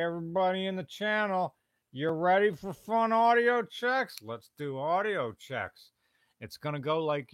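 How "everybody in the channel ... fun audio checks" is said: mock game-show hype. Hyping the channel for audio checks.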